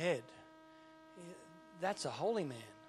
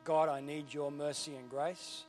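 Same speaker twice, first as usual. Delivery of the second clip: humble prayer; 2 semitones lower, 4 dB quieter than usual. Pretend. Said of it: "with an attitude of humility that says".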